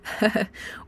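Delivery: soft, uneasy little laugh; nervous laugh. A narrator's reading. Ford humouring the Vogon captain, nervous laugh. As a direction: force out a small nervous chuckle. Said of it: "Ford laughed a nervous laugh".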